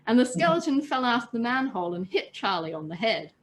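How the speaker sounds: calm read-aloud storytelling voice; steady storyteller narration; story narration. A narrator's reading. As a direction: read it like a bedtime tale to friends. Reads story aloud to listeners.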